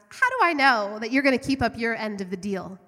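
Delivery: loud, haughty challenge; demanding witch. Acted. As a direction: throw the question at the lion.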